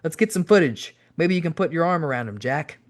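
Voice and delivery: playful, upbeat cajoling; cheery coaxing. A narrator's reading. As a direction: egg a friend on cheerily. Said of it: "Owen cheerily answered back".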